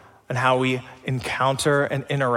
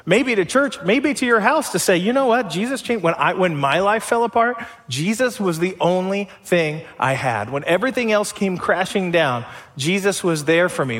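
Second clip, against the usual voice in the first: earnest testimony; 3 semitones higher than usual. Retold or imitated. Sharing testimony with broken people.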